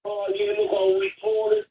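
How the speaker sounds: squeaky mock of an official fobbing him off; mocking quote. Mocking the council guy's reply.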